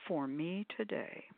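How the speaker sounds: soft request to the pendulum. Shown as a demonstration. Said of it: "and then I say".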